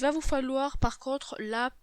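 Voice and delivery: talking through a stuffed nose; nasal from a cold; blocked nose. Real, not acted. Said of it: "je parle un petit peu du nez".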